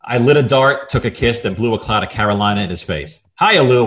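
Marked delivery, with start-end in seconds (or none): 3.4-3.9 loud breezy hello through laughter; a giggly tough-dame hiya; laughing greeting. Acted. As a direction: toss it out cocky while cracking up. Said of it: "I said".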